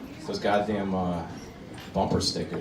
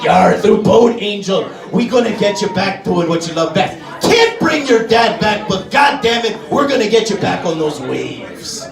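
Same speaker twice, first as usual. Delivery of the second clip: pirate mom voice. Retold or imitated. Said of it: "She's like".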